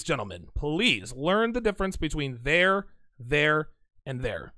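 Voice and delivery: slow, pleading over each there; mock-exasperated grammar scold; grammar police lecture. Real, not acted. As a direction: drag out every there like a fussy teacher. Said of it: "I am the grammar police".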